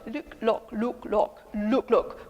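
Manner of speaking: "look" with a rounded oo vowel; look, not luck. Shown as a demonstration. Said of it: "Then you say good look".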